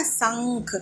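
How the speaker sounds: शंख said deliberately with the nasal ं held; drawn-out nasal hum in शंख; nasal anusvara. Shown as a demonstration. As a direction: sound the middle of शंख through the nose. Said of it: "नाक से उच्चारण हो रहा है".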